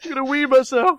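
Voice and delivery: trying not to laugh. Real, not acted. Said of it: "I've got tears in my eyes".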